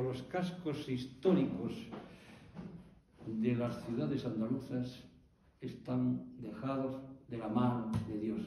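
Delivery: careful demo with all the s sounds kept; "cascos históricos" with each s said clearly; every s pronounced. Shown as a demonstration. Lecturer demonstrates a sentence keeping every s. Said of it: "tal como lo he dicho yo, ninguna".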